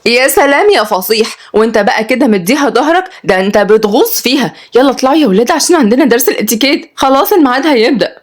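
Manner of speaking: put-on mildly exasperated young woman; Kenzi, exasperated teacher. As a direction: chide the kids and hurry them along.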